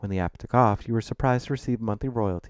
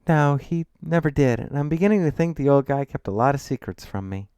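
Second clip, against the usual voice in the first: high, loud voice of the granddaughter; young shopkeeper heroine; 7 semitones higher, 7 dB louder than usual. Acted. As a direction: confide suspicions in a raised, louder pitch.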